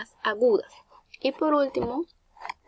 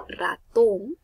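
"ratón" with a rising, leaning TÓN; stress on last syllable; 4 dB louder than usual. Shown as a demonstration. Teacher pointing back at the example "ratón", stressed final TÓN. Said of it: "tiene la mayor fuerza de voz".

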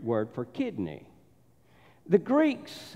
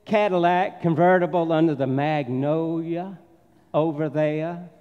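put-on southern accent. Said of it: "get my southern accent back out".

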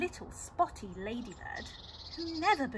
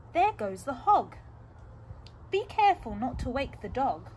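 thief voice; 6 dB louder than usual. Acted. Thief speaks.

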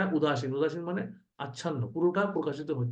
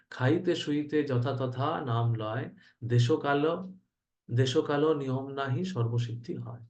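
verse recitation; slower than usual. Acted.

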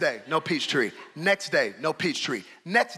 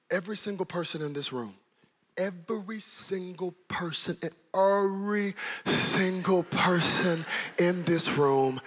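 quiet earnest preaching; 3 dB quieter than usual. Acted. Soft intimate preaching.

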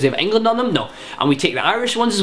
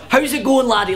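higher, hammed-up Scottish greeting; mock Scottish shout; 4 semitones higher than usual. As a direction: imitate a tourist's over-the-top Scottish accent. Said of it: "when somebody shouts".

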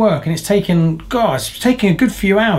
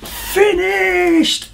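much higher, triumphant cry of relief; excited shout. Real, not acted. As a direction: shout it out, finally done. Relief after long build.

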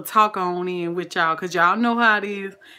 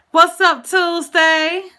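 much higher and louder, calling out gleefully; excited shout; 9 semitones higher, 7 dB louder, much slower than usual. Real, not acted. Host hollers a welcome to a regular viewer, thrilled. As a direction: holler a welcome across the room. Greeting a viewer on live stream.

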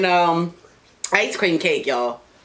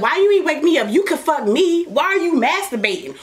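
higher, whiny jealous demand; mock jealous complaint; 8 semitones higher than usual. Wife whining at Daddy for masturbating without her. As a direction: play the left-out girlfriend. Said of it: "I be like".

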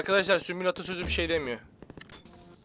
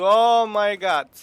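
slow, loud stretched-out amazement; amazed; 3 semitones higher, 11 dB louder, much slower than usual. Real, not acted. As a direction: drag it out in awe. Şaşkın tepki. (uzatılmış, yüksek sesle hayret)

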